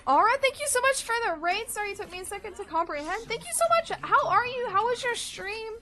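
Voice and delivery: high, bubbly streamer greeting; cute anime streamer. Acted. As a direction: squeal a welcome to the raiders. Raid welcome in streamer voice.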